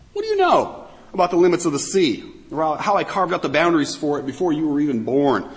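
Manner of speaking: taunting rhetorical question; biting sarcasm. Retold or imitated. God quizzes man about the sea, sarcastic. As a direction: press the question as a pointed taunt. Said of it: "ripping into them with this biting sarcasm".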